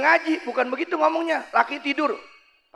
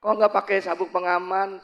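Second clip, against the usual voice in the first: softly spoken, lower voice; polite flight attendant; 3 semitones lower, 4 dB quieter than usual. Acted. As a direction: ask a passenger gently. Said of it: "ngomongin santun". (pramugari menegur dengan santun)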